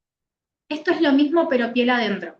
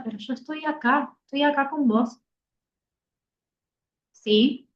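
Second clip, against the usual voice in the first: tender; 2 semitones higher than usual. Shown as a demonstration. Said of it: "de corazón a corazón".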